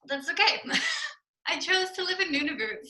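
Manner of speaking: laughing through the words; real amused laugh in the voice. Real, not acted. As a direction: giggle while admitting it. Laughs at own cold situation.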